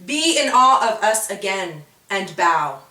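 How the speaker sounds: loud haughty command. Acted. Ribboners ordering the creatures to bow, loud. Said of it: "the Ribboners declared".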